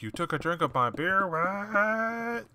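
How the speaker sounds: imitating a friend faking surprise; mock surprise. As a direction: overplay the shocked what. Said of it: "and he's surprised".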